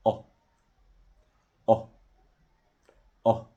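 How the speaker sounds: short, rounded vowel from the back of the mouth. Shown as a demonstration. Teacher demonstrating the short British vowel, lips lightly rounded. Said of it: "عشان أنا أوضح لك إن الصوت قصير".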